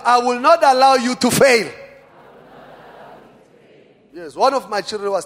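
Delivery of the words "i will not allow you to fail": loud, high-pitched vow; forceful preacher's command; like you mean it. Shown as a demonstration. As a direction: declare it with total conviction. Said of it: "Say it like you mean it".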